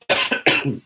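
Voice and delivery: harsh throat clear after swallowing water. Real, not acted. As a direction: clear the throat roughly, choking a little. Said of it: "You all right there?".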